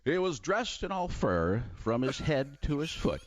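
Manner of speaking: slow, measured anchor read; Bob Ley impression. Impressionist doing Bob Ley as a slow news anchor. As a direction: tease the segment like a host. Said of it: "Bob Lee".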